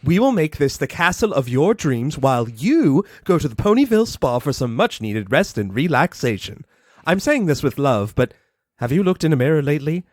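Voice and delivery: lightly voiced drawling fashionista; a hint of a grand lady, darling; posh Rarity voice. Rarity offering to decorate.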